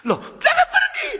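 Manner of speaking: very high, desperate call to stay; panicked plea. Acted. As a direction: beg him not to leave, very high. Drunk calls after leaving man.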